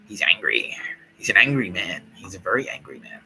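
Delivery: hushed, ominous whisper. Pretend. Whispering to listeners about the angry man. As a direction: whisper it like a secret warning. Describing Bill Burr's angry face.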